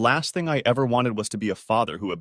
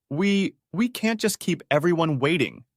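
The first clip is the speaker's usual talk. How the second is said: tight, strangled and raised; 7 semitones higher than usual. A narrator's reading. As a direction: force it out through a tight throat. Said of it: "I said in a strangled voice".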